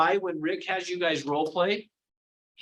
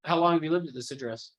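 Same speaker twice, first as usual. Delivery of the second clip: interrogating; 3 semitones lower than usual. Shown as a demonstration. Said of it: "doesn't it feel like an interrogation".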